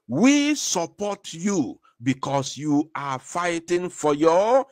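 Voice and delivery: a light imitation of a measured presidential address; imitating the Finnish president. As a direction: deliver it slowly like a head of state. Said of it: "So he said".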